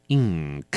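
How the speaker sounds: "ink" with a strong nasal ng before the k; 念ink时N要重; heavy ng in ink. Shown as a demonstration. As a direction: lean on the ng of "ink". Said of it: "我们都要把它念成嗯，比较重的N".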